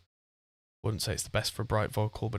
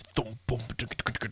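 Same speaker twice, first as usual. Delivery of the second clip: mouthed drum hits, trailing softer; imitated taiko drumming; 6 dB quieter than usual. Describing a traditional Japanese drum to the co-host, imitated drum noises. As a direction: thump out a drum pattern by mouth.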